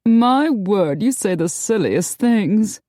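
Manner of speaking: high, tittering, coy lady; giggling. A narrator's reading. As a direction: giggle through the words. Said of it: "burst into giggles".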